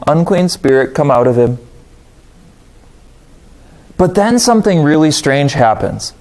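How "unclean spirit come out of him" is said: calm command. Retold or imitated. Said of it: "the model of calm".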